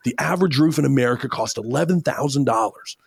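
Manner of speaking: excited demo read of the line; most exciting way. Shown as a demonstration. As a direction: sell it like the most exciting news ever. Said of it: "say this in the most exciting way that you can".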